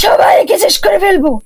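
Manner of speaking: furious spirit's vow of revenge; menacing threat. Acted. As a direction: threaten them all, building to a cry. Spirit threatens to kill everyone.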